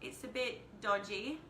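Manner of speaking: a bit dodgy Aussie accent; lightly put-on Australian accent; casual amateur attempt at an Aussie accent. Shown as a demonstration. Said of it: "I can pull out the Australian accent".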